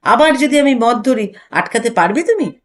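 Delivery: a touch of annoyed bite; irritated. Acted. Husband losing patience with wife, irritated. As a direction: snap back, mildly fed up. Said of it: "বিরক্ত স্বরে বলেন".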